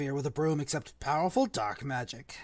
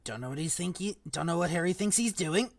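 mumbling; 2 semitones lower, 9 dB quieter than usual. A narrator's reading. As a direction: mutter it under the breath. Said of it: "Hagrid mumbled".

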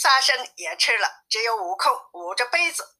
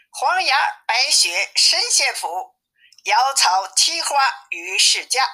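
slow, slightly higher recitation; reading a couplet; 4 semitones higher, slower than usual. A narrator's reading. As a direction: read out the inscription slowly and deliberately. Narrator reads out door couplet. (缓慢念对联)

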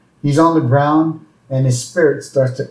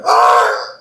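brief mock cry of alarm; panicked cry. Worker panicking at boss's insult, mock alarmed cry. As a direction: let out an imitated scared ah.

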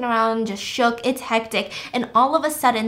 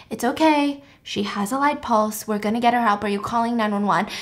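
calm. Retold or imitated.

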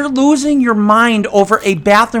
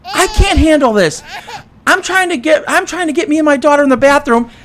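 imitating her crying; 9 semitones higher than usual. Retelling the crying customer at Chipotle, mock tearful high whine. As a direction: wail it like a frantic mother near tears. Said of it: "The woman starts crying and goes".

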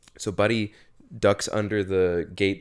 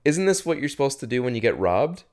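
naive question; 6 semitones higher than usual. Retold or imitated. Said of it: "'Cause he said".

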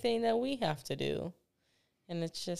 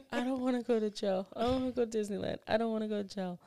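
put-on higher, rushed pleading kid voice; pleading little boy; 4 semitones higher, much faster than usual. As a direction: beg like a scared child. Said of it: "he was like".

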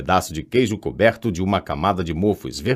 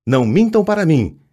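higher, louder tearful cry; tearful outburst; 7 semitones higher, 5 dB louder than usual. A narrator's reading. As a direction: accuse them through tears. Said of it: "exclamou Murta, as lágrimas agora escorrendo". (desabafo choroso e mais alto)

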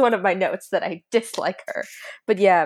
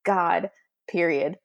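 reading out a note; 2 semitones lower, slower than usual. Retold or imitated. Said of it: "I had a note in here that said".

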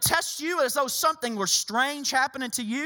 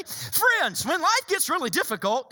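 breezy, higher-pitched flippant reading; 4 semitones higher than usual. Acted. Preacher rereading Peter's letter to show its tone, flippant. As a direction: toss it off lightly with a high opening word. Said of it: "Let me read it again".

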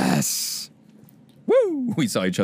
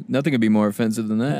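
normal talking voice

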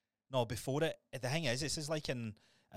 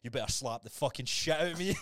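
mock hype demand; 3 semitones higher, 6 dB louder than usual. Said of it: "he goes".

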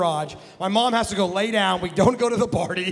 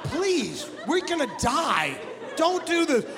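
higher-pitched mock pleading; pleading little sister; 4 semitones higher, slower than usual. Little sister begging brother to stop, mock-desperate plea. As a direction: imitate a child begging for mercy.

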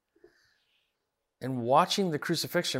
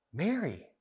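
lightly imitated tender recognition; gentle, compassionate; 5 semitones higher than usual. Preacher voicing Jesus calling Mary by name, gently. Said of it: "her name in this gentle tone".

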